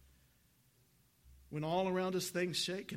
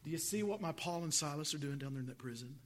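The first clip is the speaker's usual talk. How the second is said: voicing Jesus; 2 semitones higher than usual. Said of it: "Jesus saying to all those angels".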